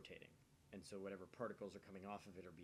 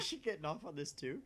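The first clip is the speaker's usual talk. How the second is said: loud, higher, half laughing; amused disbelief; 8 semitones higher, 8 dB louder than usual. Real, not acted. Joking about the character's face, loud amused disbelief. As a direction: push the joke further, grinning. Viewers react to the scene.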